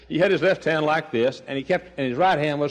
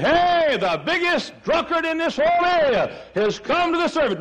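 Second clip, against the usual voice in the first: high, louder, astonished announcement; excited exclaiming; 3 dB louder than usual. Retold or imitated. Churchgoers marvelling that the town drunkard came, high and excited. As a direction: spread the news like amazed churchgoers. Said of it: "everybody said".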